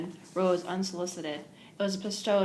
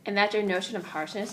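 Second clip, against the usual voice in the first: laughing; 2 semitones higher, 4 dB louder than usual. Acted. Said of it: "said Catherine, laughing".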